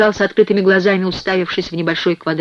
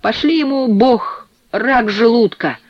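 much higher tenor voice; high tenor jeer; 6 semitones higher, 3 dB louder, slower than usual. A narrator's reading. Cellmate wishes ill on him, high tenor jeer. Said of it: "заржал кто-то высоким тенором".

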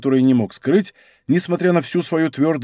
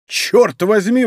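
higher, louder startled oath; exclaimed; 6 semitones higher, 4 dB louder, slower than usual. Acted. D'Artagnan recognizing Athos's voice, excited exclamation. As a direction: burst out in recognition. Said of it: "воскликнул Д'Артаньян".

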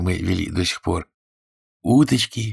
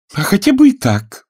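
high, loud defiant retort; 13 semitones higher, 7 dB louder than usual. A narrator's reading. Fanny challenging Freddie about the old life, defiant. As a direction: throw it back at him, defiant. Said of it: "вызывающим тоном ответила Фанни".

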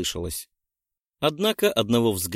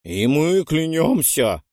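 earnest vow; 5 semitones higher, 5 dB louder, slower than usual. A narrator's reading. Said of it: "поддержали её Альберт и Фрэнк".

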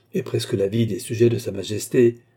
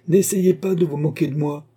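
raised, higher magistrate's voice; angry warning; 7 semitones higher, 5 dB louder than usual. A narrator's reading. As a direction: warn the accused off angrily. Magistrat menace l'accusé. (avertissement irrité, voix haussée)

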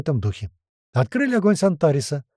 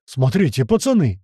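yelling; 4 dB louder than usual. Acted. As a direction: shout to the lads to look. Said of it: "заорал Чуб".

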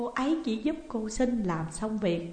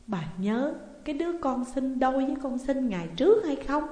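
ordinary delivery

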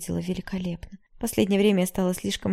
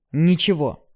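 ничего shouted, much louder, falling; shouted denial; 9 dB louder, slower than usual. A narrator's reading. Ignat cutting Yara off, shouting the last word.

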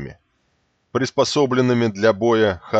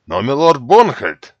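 urgent protest; 6 semitones higher, 8 dB louder than usual. Acted. Protest to the lord.

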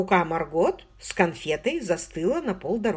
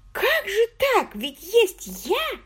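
bewildered; much slower than usual. A narrator's reading. Margot bewildered.

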